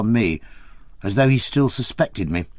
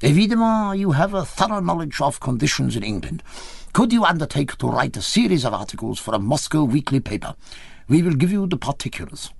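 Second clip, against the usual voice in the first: put-on higher, lightly accented Russian official making an offer; Russian recruiter; 4 semitones higher than usual. A narrator's reading. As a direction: court him with a foreign official's formality. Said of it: "The unshaven one said".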